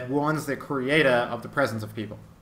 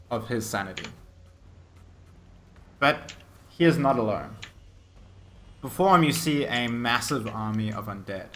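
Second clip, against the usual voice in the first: measured storytelling with dramatic pauses; game master narration; 2 semitones lower than usual. Acted. Game master describes the necromancer and his army, suspenseful narration. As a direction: lay out the menace phrase by phrase.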